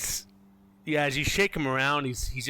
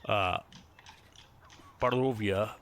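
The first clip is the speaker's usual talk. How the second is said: game master narration. A narrator's reading. Game master explains the church's history, storytelling narration. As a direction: tell the backstory with weighted pauses.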